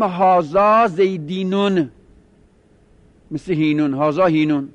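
«زیدینون» with an added «ون», like «هینون»; pronounced with final nun. Shown as a demonstration. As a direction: say «هازا زیدینون» with the nun held as a root letter.

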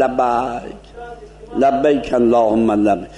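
لبیک with a narrow a close to e; mouth barely open. Shown as a demonstration. Teacher demonstrates the correct narrow لبیک. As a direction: say لبیک keeping the mouth nearly shut. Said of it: "خیلی دهن رو نباید باز کرد".

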